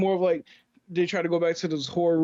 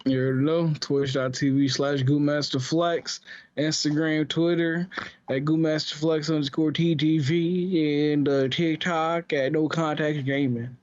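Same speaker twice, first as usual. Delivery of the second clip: cowboy voice. Acted. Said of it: "how we got into Red Dead territory here".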